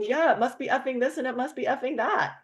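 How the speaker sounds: match his fed-up tone; mirroring his venting. Retold or imitated. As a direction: mirror the caller's complaint, exasperated. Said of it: "I go".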